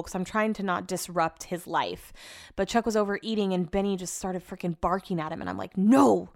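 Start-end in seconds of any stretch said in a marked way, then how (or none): 5.8-6.3 sharp retold yell at the dog. Vlogger retelling how she yelled at her dog, loud no. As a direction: snap a loud no at the barking dog. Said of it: "That's the one time I did yell at him".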